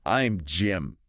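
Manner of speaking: slow, careful model phrase. Shown as a demonstration. Teacher finishing the practice sentence, slowly. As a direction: say it word by word for a learner. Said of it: "say the whole sentence slowly".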